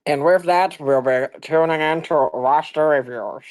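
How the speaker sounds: booming show announcer. Acted. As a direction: announce it like a ringside MC. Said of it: "that's the announcer voice".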